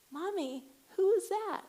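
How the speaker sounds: put-on high, loud little-boy question; piping up like a curious kid; child's voice. Son asking mom about the shushing woman, high and childlike. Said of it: "Rowan's like".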